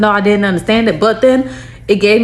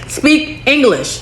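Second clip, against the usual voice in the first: slow, spaced-out retold demand; exasperated demand; 3 semitones higher, much slower than usual. Child insisting to mommy, mock exasperated. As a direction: spell it out slowly for mom.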